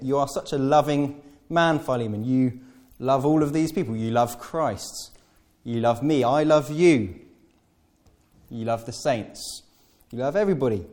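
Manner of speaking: gushing flattery, imitating Paul; laying it on thick. Paul flattering Philemon, laying it on thick. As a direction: pour on the praise. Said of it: "Paul is really, really laying it on".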